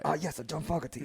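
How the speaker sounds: put-on a light stereotyped Asian accent; Asian accent impression. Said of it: "he was doing an impression of John F".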